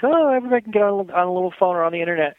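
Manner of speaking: mock naive quote. Host mocking people who assume everyone has internet access, fast mock-breezy. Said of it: "you think".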